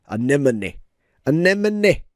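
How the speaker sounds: anemone repeated as a-NEM-o-nee; repeating the word. Shown as a demonstration. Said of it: "you have to say anemone".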